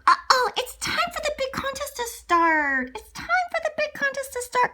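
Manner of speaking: high-pitched urgent call; high storybook uh-oh; alarmed announcement. Acted. Alarmed call that contest starts.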